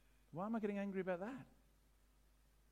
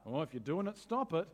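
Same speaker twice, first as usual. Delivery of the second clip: casual brush-off. Retold or imitated. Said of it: "This isn't a".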